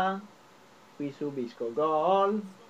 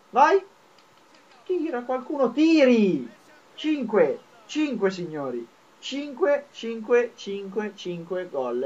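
high, loud goal call; breathless italian goal commentary; 7 semitones higher, 7 dB louder, slower than usual. Real, not acted. Scores, calls it like commentary.

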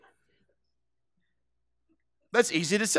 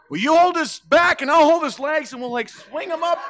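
much higher, laughing half-shout; laughing friend; 10 semitones higher than usual. Retold or imitated. Friend planning to hoist him onto the roof, high laughing voice. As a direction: giggle through the plan to swing him up.

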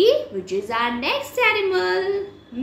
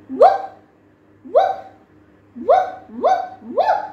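high, loud yappy woofs; puppy woof; 10 semitones higher, 4 dB louder than usual. Pretend. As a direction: bark like a little puppy. Dog barks in a kids' song.

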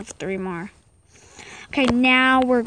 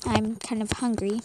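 talking while chewing gum; words round a piece of gum; 4 dB quieter than usual. Real, not acted. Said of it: "I'm just chewing gum".

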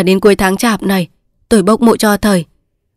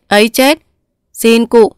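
chết rising in mounting alarm; the repeat more urgent; 2 semitones higher than usual. Acted. Clerk alarmed, repeats himself.

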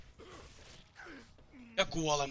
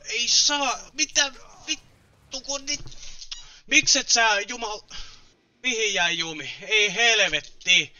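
loud, high exasperated outburst; raised voice, losing patience; frustrated cursing; 5 semitones higher, 5 dB louder than usual. Real, not acted. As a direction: curse at the game in real frustration. Cursing as the game goes wrong.

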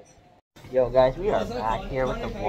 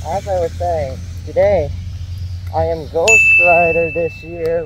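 excited; 3 semitones higher, 9 dB louder than usual. Real, not acted. Costume reveal, proud announcement.

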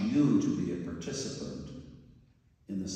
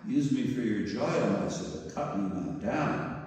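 pleading; 3 semitones higher than usual. Acted. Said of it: "A trembling great horror shook Bamboo".

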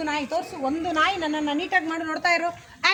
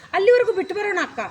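louder, higher and quick demo; a bit louder; 4 semitones higher, 5 dB louder, faster than usual. Shown as a demonstration. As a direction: say it out for the back row. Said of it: "ಸ್ವಲ್ಪ ಜೋರಾಗಿ ಹೇಳು". (ಸ್ವಲ್ಪ ಜೋರಾಗಿ, ಬೇಗ)

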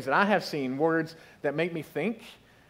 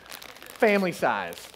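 slow savoring; much slower than usual. Real, not acted.

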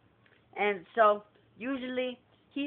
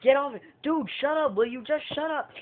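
a higher, louder mock shout; angry shouting; 7 semitones higher, 3 dB louder than usual. Angry guest shouting at the security guard, loud. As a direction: shove the words out angrily. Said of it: "And he's like".

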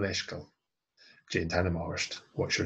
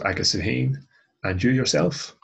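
louder emphasis; 5 semitones higher, 8 dB louder than usual. Shown as a demonstration. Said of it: "teacher explains emphasis".

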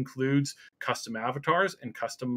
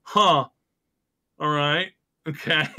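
bemused shrug; 4 dB louder, slower than usual. Retold or imitated. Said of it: "it's kind of like".

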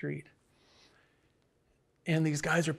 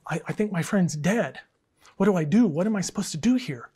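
mock panic; 2 semitones higher, 5 dB louder than usual. Hunter calling nine one one about his friend, mock panicked. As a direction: plead for help in lightly hammed-up panic. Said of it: "his friend just panics".

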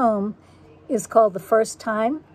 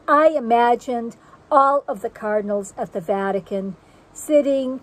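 measured, deliberate poetry recital with lifted phrase openings; poem reading. Acted. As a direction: read it as a poem, letting each phrase stand apart. Reads her second poem aloud.

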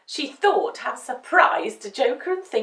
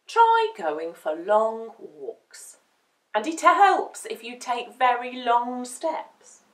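slow serious advice; 5 dB louder, slower than usual. Acted. Thinker advises slowly.

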